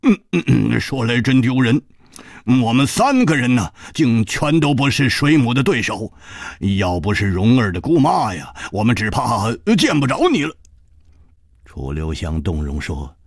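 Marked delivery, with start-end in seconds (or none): 0.0-10.6 wry smile. Acted. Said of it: "苦笑着说".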